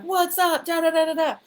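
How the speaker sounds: high, loud, giddy sing-song; manic greeting. Retold or imitated. Greeting her friend Amanda at the door, giddy and manic. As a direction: bounce through it like nothing's wrong.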